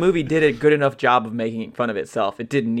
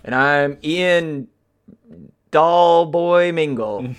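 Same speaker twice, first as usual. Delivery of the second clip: strong lungs; 2 semitones higher, much slower than usual. Acted. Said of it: "Strong Lungs Mingle".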